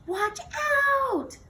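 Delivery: high, loud warning cry; warning shout. Acted. Melia warning Jo leaping too high, a sharp shout. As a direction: yell to stop her in time. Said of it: "shouted Melia".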